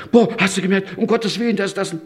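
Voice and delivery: high, gushing mock wonder; mocking someone stunned by answered prayer; mock amazement. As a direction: gush like a dazzled believer.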